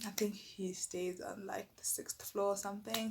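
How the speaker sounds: soft unvoiced aside; whispered side note. Real, not acted. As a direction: hush it as an afterthought. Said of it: "hushed aside".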